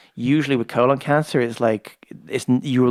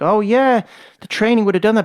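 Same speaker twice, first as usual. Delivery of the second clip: high, louder offhand voice; high casual doctor; 8 semitones higher, 5 dB louder than usual. Retold or imitated. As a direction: toss it off brightly like a doctor.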